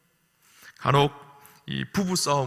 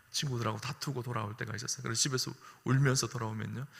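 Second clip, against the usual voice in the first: ordinary talk, nothing marked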